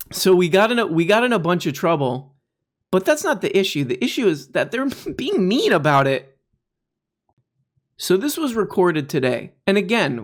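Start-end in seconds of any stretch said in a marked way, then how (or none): 0.1-6.4 mock childish complaint, slightly higher; imitating a whiny baby. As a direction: complain like a little kid caught out. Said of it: "This is like a baby".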